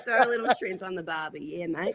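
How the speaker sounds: American doing a playful Australian accent; Aussie accent. Shown as a demonstration. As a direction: ham up the Aussie accent, amused. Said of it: "best American Aussie accent I've heard".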